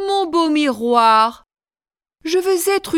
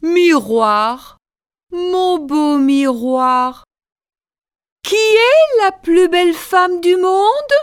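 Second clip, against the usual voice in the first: queen to the mirror; 4 semitones higher, slower than usual. Acted. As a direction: ask the mirror, rising in demand. Queen asks the mirror again.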